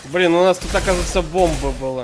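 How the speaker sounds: loud startled exclamation; surprised. Real, not acted. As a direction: blurt it out, caught off guard. Surprised by bomb in game.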